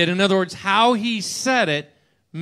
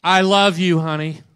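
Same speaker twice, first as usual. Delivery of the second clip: tender; 2 semitones lower, 4 dB louder than usual. Shown as a demonstration. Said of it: "Difference, right?".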